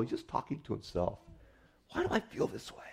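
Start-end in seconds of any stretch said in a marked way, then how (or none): 1.9-2.8 whispered self-question. Retold or imitated. Psalmist talking to himself.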